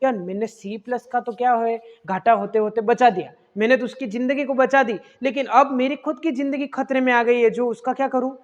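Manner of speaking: water molecule frets over its own plus charge; worried water's musing. Retold or imitated. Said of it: "वो सोचेगा".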